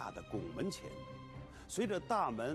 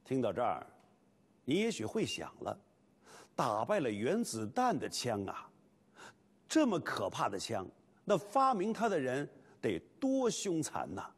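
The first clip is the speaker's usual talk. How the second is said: lively documentary narration; 4 dB louder than usual. Acted.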